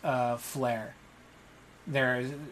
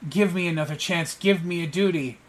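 higher pleading voice, pushed out fast; a hint of a desperate underling begging his lord; begging servant; 4 semitones higher, 5 dB louder than usual. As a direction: grovel for one more chance. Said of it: "And he goes".

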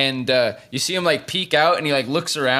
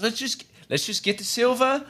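higher, scheming whisper-ish tone; Ren voice; 7 semitones higher, 3 dB quieter than usual. Acted. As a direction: Ren plotting, pitched up. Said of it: "He says".

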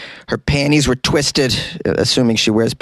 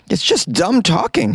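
mocking quote; 9 semitones higher than usual. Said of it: "she's saying".

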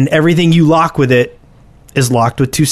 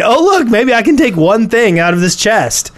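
mock sneaky thief; 6 semitones higher than usual. Voicing a griefer picking chests.

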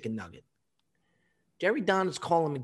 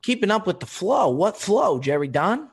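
incredulous; 4 semitones higher, 6 dB louder than usual. Real, not acted. Incredulous at Don's claim.

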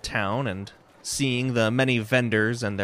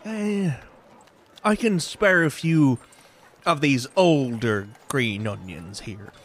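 grudging vendor; 4 semitones higher, 4 dB louder than usual. Acted.

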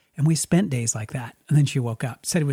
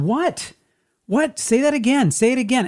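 much higher, urgent begging; pleading; 9 semitones higher than usual. Retold or imitated. Dreamer pleading with the girl to repeat herself, pleading. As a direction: beg her not to go. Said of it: "I'm just pleading with this person".

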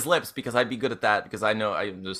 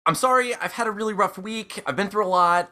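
higher-pitched, mildly pleading apology; apologetic; 5 semitones higher than usual. Acted. Helping the guy back up, apologetic. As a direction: apologise in character, pitch lifted. Player acts out apology to stranger.

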